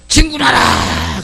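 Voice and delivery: high, slow shouted order from the rear; cowardly general's order. Retold or imitated. Cowardly general ordering the advance, high slow call. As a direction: bark it from safely behind. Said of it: "비겁한 장수는 어떻게 해요?".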